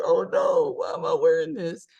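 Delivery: high, squeaky mock panic; mock dismayed bride. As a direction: play the regretful bride in a high voice. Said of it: "And she was like".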